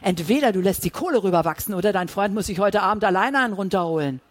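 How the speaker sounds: loud, menacing threat; threatening voice. Acted. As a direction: threaten him to his face. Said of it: "Sids drohende Stimme".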